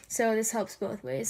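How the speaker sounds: stuffy nose from allergies; sniffly. Real, not acted. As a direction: talk through a sniffly nose. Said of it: "Sorry, I'm a little sniffly".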